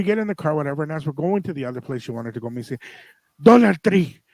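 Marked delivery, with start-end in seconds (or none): 3.4-4.2 eager announcement. Retold or imitated. Mom announcing next stop.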